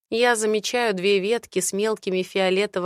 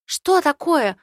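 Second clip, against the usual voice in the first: Mel's voice; 7 semitones higher, 6 dB louder, slower than usual. Acted. Mel alarmed question.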